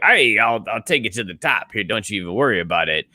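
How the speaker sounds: loose hyped promoter voice; brash boxing promoter; Don King impression. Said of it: "Don King impression".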